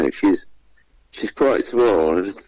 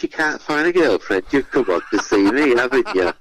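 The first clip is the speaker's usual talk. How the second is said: higher, camped-up teasing voice; camp host; 5 semitones higher than usual. Retold or imitated. Host teasing the handsome contestant, higher camp voice. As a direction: tease him like a camp game-show host. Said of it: "I'm campered up a bit".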